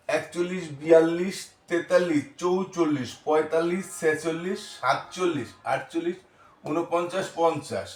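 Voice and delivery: measured classroom number count; counting recitation. Shown as a demonstration. Counting numbers aloud for pupils. (গুনে গুনে পাঠ)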